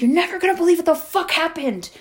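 high, excited gossip lead-in; retold can-you-believe-it tone; retold incredulity. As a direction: pitch it up like juicy news. Breaking gossip to boyfriend, retold.

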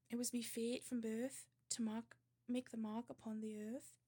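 put-on amateur Geordie accent, reciting verse. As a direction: recite it as a proud Geordie boy. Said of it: "read a poem by a famous Geordie".

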